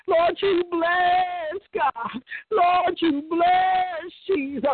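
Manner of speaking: slow, crying as she prays; tearful prayer. Real, not acted. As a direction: let the tears break the words. Weeping during prayer.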